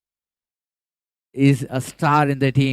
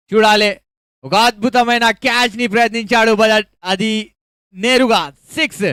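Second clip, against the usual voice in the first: high, loud live call of a six; excited cricket commentary; 6 semitones higher, 3 dB louder than usual. Real, not acted. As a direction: shout the big hit. Big six, near catch.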